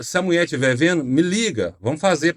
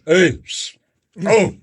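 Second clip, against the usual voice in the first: put-on drunk heckler calling out; 4 semitones higher, 5 dB louder than usual. Drunk heckler shouting from crowd.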